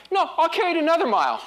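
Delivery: high, fast, laughing insistence; laughing cheerful offer. Retold or imitated. Christian to annoyed soldier, loud laughing cheer. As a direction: gleefully refuse to hand it back. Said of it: "the guy's going".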